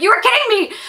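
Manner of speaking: high, loud disbelief with a laugh; incredulous outburst. Retold or imitated. Swimmer told she could have stood, incredulous. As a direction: burst out in retold outrage, pitch leaping.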